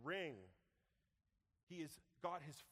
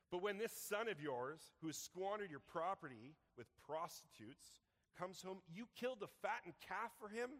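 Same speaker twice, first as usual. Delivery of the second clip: indignant accusation; 6 semitones higher, 3 dB louder than usual. Acted. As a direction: throw the injustice in his face. Son's angry accusation.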